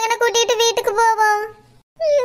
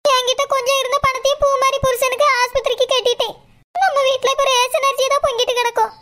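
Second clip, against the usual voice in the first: tearful, slightly raised pleading voice; crying confession. Acted. Wife confessing her past wrongs to her husband, tearful. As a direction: beg forgiveness through tears. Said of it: "அழாத சரோ".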